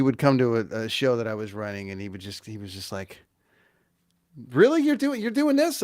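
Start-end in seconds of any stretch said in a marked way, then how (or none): 4.5-5.8 high, loud mock disbelief; pitched-up incredulous questioning; incredulous teacher. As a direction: imitate a teacher who can't believe it. Imitates old teacher's disbelief.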